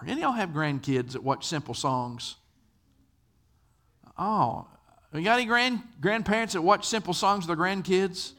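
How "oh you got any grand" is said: ordinary talk, nothing marked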